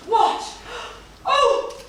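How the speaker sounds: theatrical gasp as she swoons; stage a hammed-up fainting cry; mock faint with a high gasp; fake faint. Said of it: "You saw how I just fainted?".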